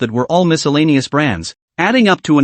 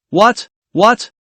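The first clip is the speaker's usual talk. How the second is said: sharp high startled What; disbelieving exclaim; 7 semitones higher than usual. A narrator's reading. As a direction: blurt it out in shock. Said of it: "all exclaimed with wide eyes in disbelief".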